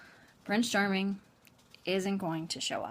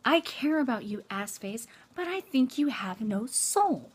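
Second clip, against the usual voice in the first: mild burst of exasperated confession, pitched up at first; emotional outburst. Acted. Woman imagined bursting out at her slacker boyfriend, mild outburst. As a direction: blurt it out, then draw out the last words. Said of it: "bursts out and says".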